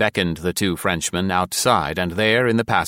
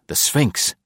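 "the Sphinx!" voiced, higher, falling exclamation; exclaimed; 5 semitones higher than usual. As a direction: cry out "the Sphinx!" in amazement. Awed realisation, then exclamation.

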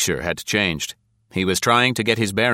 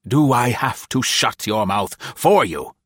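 1 cold threat; 4 semitones higher than usual. A narrator's reading. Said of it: "Tilson asked coldly".

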